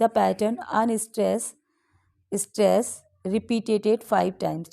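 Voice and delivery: drawn out, word by word, unstress then stress; very slow stress pattern. Shown as a demonstration. Teacher explaining iambic meter to the class, very slow. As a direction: lay out the rhythm slowly for students. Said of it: "demonstrates the iambic pattern".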